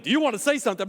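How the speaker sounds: curt, pushy question; impatient demand. Shown as a demonstration. Pastor showing the wrong way to ask a spouse, curt and irritated. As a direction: push the spouse to talk, irritated. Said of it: "I don't mean".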